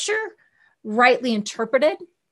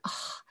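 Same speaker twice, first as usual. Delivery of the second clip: soft aha sigh; 18 dB quieter than usual. Retold or imitated. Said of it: "the emotional, like".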